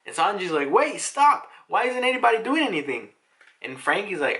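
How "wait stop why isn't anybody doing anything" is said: high, loud mock panic; acted-out frantic protest; alarmed outcry. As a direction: cry out for everyone to stop, pitched way up. Voicing Sanji's alarmed outcry.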